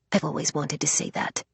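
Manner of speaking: soft whisper in the ear. Acted. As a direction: confide it in a whisper.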